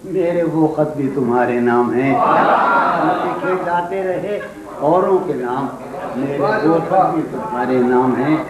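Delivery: poetry recitation. Acted. Poet reciting a couplet to an audience, declaimed verse. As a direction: declaim the verse phrase by phrase, with pauses.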